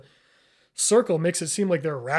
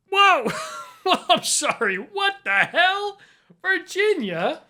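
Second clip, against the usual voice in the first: much higher, slow stunned disbelief; shocked; 12 semitones higher, slower than usual. Real, not acted. Shocked by Virginia flag.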